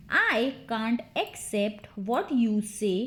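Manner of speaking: slow, word-by-word teaching take; measured, deliberate drill model; slow repeat. Shown as a demonstration. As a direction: space the words out for learners. Drill, slower repeat for learners.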